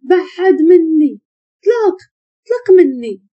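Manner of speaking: high, drawn-out crying plea; acted sobbing demand to be let go; tearful protest. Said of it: "سحر كتهضر وكتبكي".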